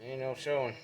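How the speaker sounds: winded, short of air; puffing after a climb; out of breath. Real, not acted. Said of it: "Just me out of breath".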